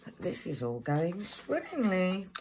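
failed attempt at a posh English accent; mock posh accent that doesn't land. Shown as a demonstration. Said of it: "trying to do a posh voice and it didn't work".

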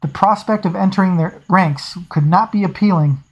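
steady audiobook reading voice; story narration. A narrator's reading. Reader narrating a naval scene for listeners, steady storytelling. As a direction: read the novel to your listeners. Reads novel aloud.

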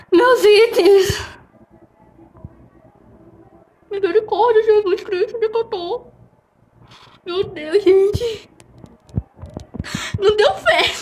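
high, distraught shouting; wailing over lost items; panicked shouting. Real, not acted. Just died, lost items.

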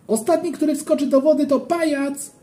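playful shout. A narrator's reading. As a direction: yell the challenge up high across the pool. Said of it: "krzyknąłem".

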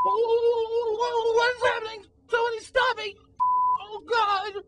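high, drawn-out wail of alarm; frantic, stretched-out yelling for help; panicked cries. Acted. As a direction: cry out as if spinning out of control. Acted panic while spinning out of control.

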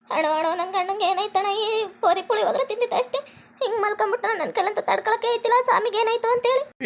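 acted weepy lament; tearful wailing. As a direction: wail like a distraught wife. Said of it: "ಎದಕ್ಕೆ ಮೊದ್ಲಾಗೆ ಹಿಂಗ್ ಅಳ್ತಿ".

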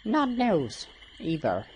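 high, loud, slow Elmo-like puppet; Muppet voice. Acted. Game character dismissing Kern as news, in a Muppet voice. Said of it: "like, a Muppet voice".

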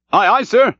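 high, eager sailor's answer; cheery cry. A narrator's reading. Little King Post answers his captain, crying cheerily. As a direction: sing out the reply cheerily. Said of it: "cheerily cried little King Post".

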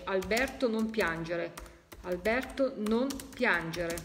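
slowed, each word spelled out; slow deliberate repeat. Shown as a demonstration. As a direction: read the message slowly for listeners. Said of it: "sta dicendo". (lento e scandito)

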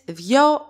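δυο as thyo, a single beat; "δυο" with the vowels pronounced together; one syllable. Shown as a demonstration. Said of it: "one syllable".

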